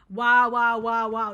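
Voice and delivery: answering own inner voice with fake awe; mock amazement. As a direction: feign being blown away. Mock awe at id's pep talk.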